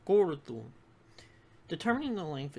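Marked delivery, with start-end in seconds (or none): 0.1-0.7 gordum broken before the last vowel, gord-um; split before vowel. Shown as a demonstration. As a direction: say gordum in two parts, loud gord, then um. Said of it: "divide syllables before a vowel".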